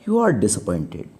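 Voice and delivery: lightly voiced out-of-breath fat spy; wheezy fat man. Teacher voicing Oscibil answering the disappointed writer, a touch wheezy. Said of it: "Oscibil said wheezily".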